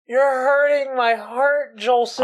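slow, hammed-up wounded plea; mock heartbroken. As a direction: play the heartbroken friend, slowly. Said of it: "I'm hurting".

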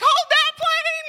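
high, loud, slow hammed-up yell; Dumb and Dumber run. Preacher imitating the movie's gate dash, slow, high, loud yell. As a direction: bellow it while sprinting past the gates. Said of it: "it was like Dumb and Dumber".

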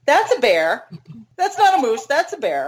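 alarmed at the sight; surprised. Retold or imitated. Spotting a bear on trail.

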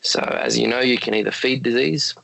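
hoarse, croaky late-night voice. Real, not acted. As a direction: talk through a croaky throat. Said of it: "excuse my croaky voice".

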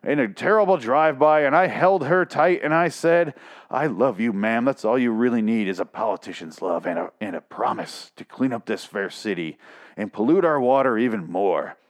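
lightly voiced smarmy politician; mock politician. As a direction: play a smug politician telling a sob story. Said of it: "this is like a politician".

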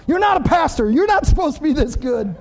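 amused mock complaint; laughing protest. Real, not acted.

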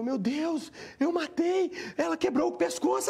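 high-pitched, horrified outcry; re-enacted panic. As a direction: exclaim as if realising a terrible deed. Revive o pânico de tê-la matado. (pânico encenado, voz aguda)

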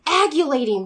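"agulating" said as AG-yuh-lay-ting; child's mispronunciation. Retold or imitated. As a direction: say "agulating", a small child's slip for aggravating. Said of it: "trying to say aggravated".

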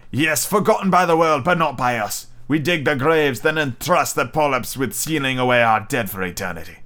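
a captain mourning his crew; Captain Nemo. Acted. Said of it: "Captain Nemo replied".

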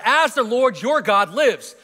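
slow, weighty emphasis on the living God; emphatic reading. Shown as a demonstration. Pastor stressing the widow's words to the congregation, slow and weighty. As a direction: lean into each word with awe. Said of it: "she's recognizing that the God of Elijah is the living God".

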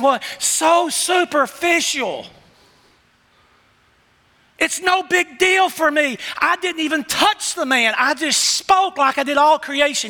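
lightly voiced God questioning his people; the Lord gently chiding those who only want fixes. Preacher voicing the Lord.

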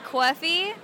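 "coffee" said as "cawfee", with an AW vowel; respelled "cawfee". Shown as a demonstration. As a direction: stretch the first vowel of "coffee" into "caw". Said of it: "like, C A W E".

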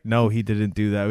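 unruffled retold reply; calm, understated denial; super calm. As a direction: answer evenly and calmly. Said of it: "she kept coming back super calm, super calm".

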